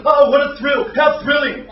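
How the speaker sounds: loud sarcastic exclamation; mock thrill, shouted. Gladiator to audience, sarcastic loud shout.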